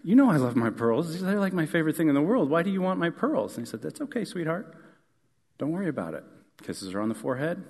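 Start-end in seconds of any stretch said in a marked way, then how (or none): 0.0-3.6 put-on higher, faster, a touch anxious girl; a daughter getting worried about her pearls; mock-nervous little girl pleading. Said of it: "starts to get nervous". 3.8-6.2 soft, higher reassuring dad; calm his worried daughter gently; lightly voiced reassuring father; tender father.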